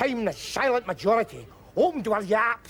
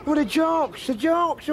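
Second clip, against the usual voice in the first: mocking sneer; 6 semitones higher than usual. Mocking Westminster view.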